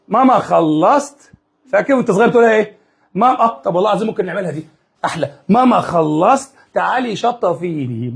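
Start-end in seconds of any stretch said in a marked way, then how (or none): 0.1-1.3 put-on child voice. Child calling mom from toilet. 5.5-8.1 put-on child voice. Child calling mom from toilet.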